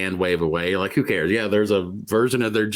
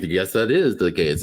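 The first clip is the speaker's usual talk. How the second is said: slow, lower, cool delivery; suave guy; 4 semitones lower than usual. Retold or imitated. Imitating a suave actor's character, suave and slow. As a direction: play it smooth and unhurried. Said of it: "he's a very suave kind of guy".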